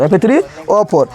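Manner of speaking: "F three O four" spelled out slowly, letter by letter; slow it down so they can write "F three O four"; slow formula. Shown as a demonstration. Teacher repeats the rust formula for students, slowly. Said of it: "जंग का सूत्र याद रखना है".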